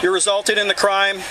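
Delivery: loudspeaker announcement; blasting sound cannon. Real, not acted. Loudspeaker order to the crowd.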